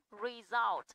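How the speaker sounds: "Result" stressed as re-SULT; stress on second syllable. Shown as a demonstration. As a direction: put the weight on the end of "Result". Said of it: "âm result".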